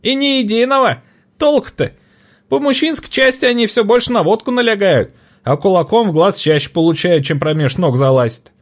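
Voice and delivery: high, loud, delighted trader's voice; a raucous old trader laughing it off; cackling market woman. A narrator's reading. Market woman delighted to see the boy, high and loud. Trader complaining about men.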